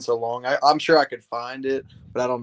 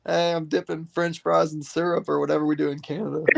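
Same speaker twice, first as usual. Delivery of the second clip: imitating Aiden; 2 semitones higher than usual. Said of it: "I'm gonna do Aiden".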